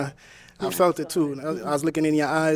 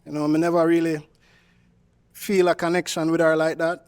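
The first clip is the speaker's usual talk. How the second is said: put-on Jamaican accent. Suitor on a dating show explains himself in a Jamaican accent. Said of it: "using your Jamaican accent".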